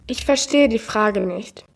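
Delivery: lightly voiced AI woman with stilted stress; a hint of a computer lady, odd emphasis; mild synthetic female assistant voice; unnatural woman's voice. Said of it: "Ihre Betonung ist genauso unnatürlich".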